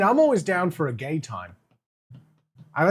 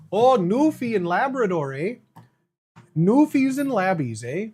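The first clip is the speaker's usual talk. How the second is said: put-on a clumsy, louder stab at a Newfoundland accent, slow on Labbies; mock Newfoundland accent; 3 semitones higher, 4 dB louder than usual. Streamer greets Newfoundland viewers in a clumsy Newfoundland accent. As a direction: playfully mimic a Newfoundland accent with a drawn-out eh. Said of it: "that's not the accent at all".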